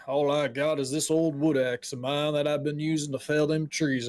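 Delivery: folksy local, riled then apologetic; a hint of an upset old-timer; lightly voiced grumbling woodcutter. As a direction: stew over the noblemen, then excuse yourself.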